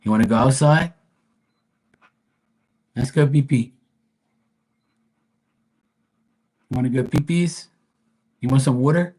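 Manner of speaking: exasperated pet talk. Real, not acted. Streamer scolding her restless dog in high baby talk. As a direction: fuss at the dog, then lose patience.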